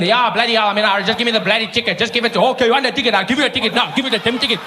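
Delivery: hurried and fed up, daring the cop to write it; mock exasperated white motorist; hammed-up irate driver. Driver mocking the ticket.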